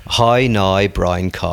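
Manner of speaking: "How now, brown cow" in broad Northern Irish vowels; Northern Irish accent. Shown as a demonstration. Showing the co-host on request, Northern Irish accent. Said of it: "do it, do it".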